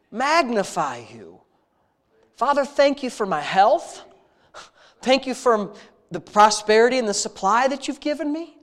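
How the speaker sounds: earnest, intimate prayer voice, addressing God like a father; heartfelt spoken prayer. Real, not acted. Pastor leading his congregation in prayer, earnest and intimate. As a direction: pour out thanks to God in an earnest rhythm.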